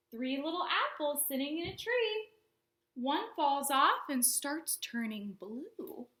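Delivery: put-on slow, sing-song rhyme for little kids; children's librarian reciting a counting rhyme, slow and bouncy; storytime rhyme. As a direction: read it like a picture book, slowly.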